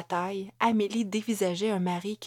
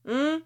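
questioning moan, pitched up; moaned hum; 8 semitones higher, 3 dB louder than usual. A narrator's reading. Husband finally reacting to his wife, moaning. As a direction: let out a higher, rising "hum?". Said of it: "gémit finalement Jonathan".

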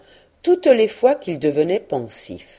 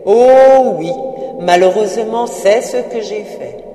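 Marley's ghost in louder, lifted lament; 2 semitones higher, 4 dB louder than usual. Acted. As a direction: preach his regret like a doomed spirit.

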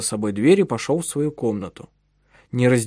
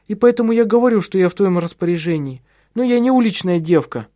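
indignant wife; 8 semitones higher, 4 dB louder than usual. Acted. Anetta's indignant reply.

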